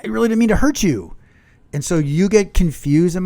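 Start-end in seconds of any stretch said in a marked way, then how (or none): 0.0-1.2 mocking partner. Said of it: "inside you're like".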